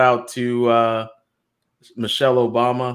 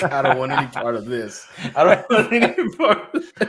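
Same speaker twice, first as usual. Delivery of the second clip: imitated reluctance; 3 semitones higher than usual. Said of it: "You were like".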